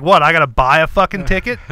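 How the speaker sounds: loud, disbelieving snap; father outraged at the usher's offer, loud and incredulous; incredulous outburst. Retold or imitated. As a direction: blurt it out in angry disbelief. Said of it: "And I was like".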